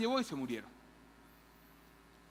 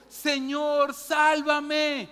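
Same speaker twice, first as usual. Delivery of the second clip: mock cry for help; 4 semitones higher, 4 dB louder, much slower than usual. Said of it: "Entonces gritó".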